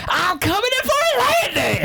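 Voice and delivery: high, hammy airline captain; commercial pilot voice. Shown as a demonstration. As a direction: ham up a pilot announcement. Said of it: "Unless you're like".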